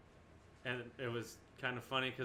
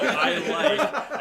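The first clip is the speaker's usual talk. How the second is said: high, loud mimic of a friend; mocking imitation; 12 semitones higher, 14 dB louder than usual. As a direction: parrot his words in a squeaky mock voice. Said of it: "When you go".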